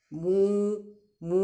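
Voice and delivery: teacher's demonstration moo; cow moo. Shown as a demonstration. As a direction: imitate a cow mooing, one at a time. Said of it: "काऊ कैसे sound निकालती है".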